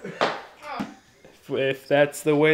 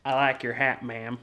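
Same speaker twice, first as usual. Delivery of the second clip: lightly put-on cowboy accent; 3 semitones lower, 6 dB quieter than usual. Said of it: "I gotta do that accent".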